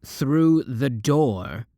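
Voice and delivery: drawn out, pointed correction; slow deadpan correction. Acted. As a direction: spell it out slowly. Defensive correction.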